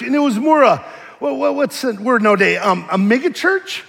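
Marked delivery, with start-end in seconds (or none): none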